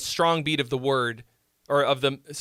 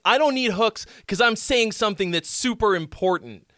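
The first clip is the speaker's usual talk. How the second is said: mock songwriter. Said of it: "if you're like".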